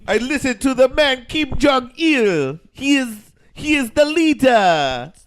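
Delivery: loud, high, hammed-up East Asian accent; mock East Asian accent. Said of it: "my best Chinese accent".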